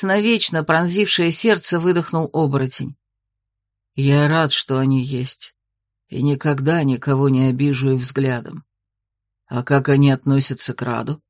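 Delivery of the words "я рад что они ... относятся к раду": tender werewolf. Acted. Werewolf kneeling before his queen, lower tender voice. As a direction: murmur it like a vow at her knees. Sinark answers.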